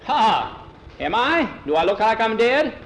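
high, loud, hearty scoff; incredulous old salt; scoffing sea captain. A narrator's reading. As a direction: laugh off the very idea, booming. Captain scoffs at being dead.

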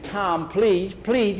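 put-on high, pleading boy's voice; desperate kid imploring; begging. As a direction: beg him with pitch way up. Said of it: "Skeeter was begging".

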